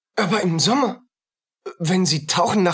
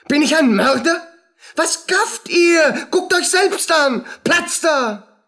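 louder, higher, defensive yelling with a crazed laugh; angry shouting; 7 semitones higher, 4 dB louder than usual. Acted. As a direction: fend off the crowd at full voice. Wojciech bedrängt, wehrt Leute ab. (Wojciech schreit die Gaffer im Wirtshaus wütend an)

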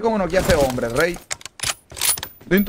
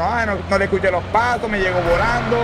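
higher-pitched imitation of a whining opponent; mock complaining player; 5 semitones higher than usual. Gamer imitating the man who reports him, mock complaint. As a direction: mimic the player who will report you. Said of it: "ya este man me reporta".

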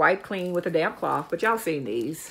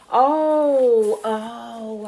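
surprised oh; 5 semitones higher, 5 dB louder than usual. Real, not acted. Sudden realisation about the zipper.

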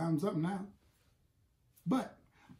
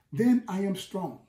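yelling out to God; slower than usual. Acted. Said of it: "you cry out, you yell out".

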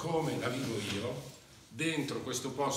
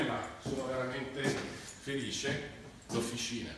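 out of breath; 3 dB quieter than usual. Real, not acted. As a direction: still catching breath, happy. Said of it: "scusate il fiatone".

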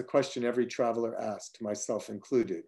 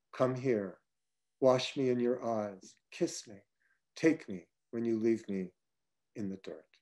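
hushed plea; 6 dB quieter than usual. Acted. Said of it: "I say".

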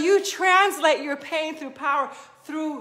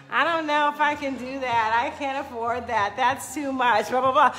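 doubtful self-talk; 5 semitones lower than usual. Retold or imitated. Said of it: "you can say".

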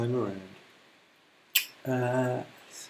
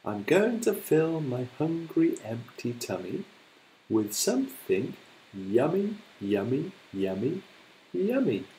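gloating crocodile; 3 semitones higher than usual. Acted. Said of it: "grinned at Humpy Rumpy and said".

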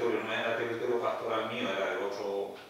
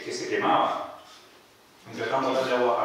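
normal talking voice

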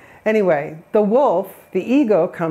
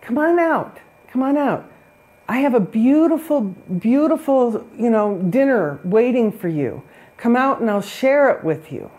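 tempting wolf; 3 semitones higher than usual. Retold or imitated. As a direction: lure the pigs out sweetly, stretching beautiful. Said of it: "The wolf is saying".

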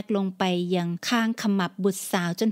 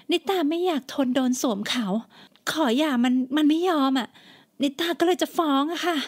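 put-on higher, tearful young woman; pleading daughter; 6 semitones higher than usual. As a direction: explain it again, near tears.

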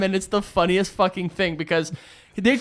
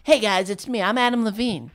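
imitating a singer; 3 dB quieter than usual. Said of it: "Adam Levine is more like".

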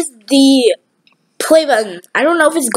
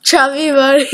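cheeks stuffed full. Real, not acted. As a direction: mouth full of marshmallows. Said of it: "we're gonna start with one".

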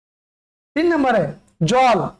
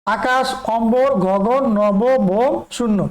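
slow recap; much slower than usual. Shown as a demonstration. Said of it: "এগুলো উচ্চারণ আলাদা".

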